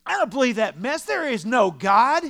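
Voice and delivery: high, booming outraged refusal; scornful old man. Acted. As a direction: holler it like a deaf, dismissive old man. Old man loudly denies God.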